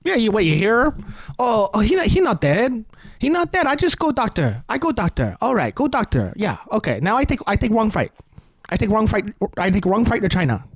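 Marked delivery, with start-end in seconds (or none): 1.4-8.1 hammed-up broken-English Asian accent, lightly voiced; comic imitation of a heavy Asian accent; mock Asian accent. Comedian mocks the senator's wife with a put-on Asian accent. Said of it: "in a very thick Asian accent". 8.7-10.6 mock Asian accent. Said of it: "if this woman does the Asian accent".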